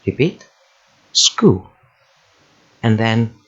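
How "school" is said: SCHOOL as one separate, drawn-out syllable; isolated syllable. Shown as a demonstration. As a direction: say School alone as a clear model syllable. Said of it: "practice with the first syllable".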